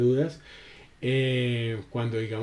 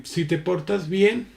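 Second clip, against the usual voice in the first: put-on conditional to child; 3 semitones higher than usual. Shown as a demonstration. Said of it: "Son dos diferentes acentos".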